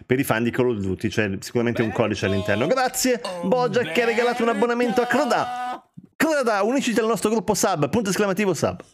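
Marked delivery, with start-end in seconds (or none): 2.7-8.8 upbeat shoutout. Real, not acted. Thanking a subscriber.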